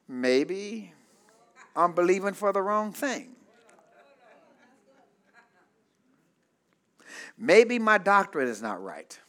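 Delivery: softly voiced second thoughts; musing low, as a believer starting to doubt; wondering doubt. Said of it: "they begin to wonder".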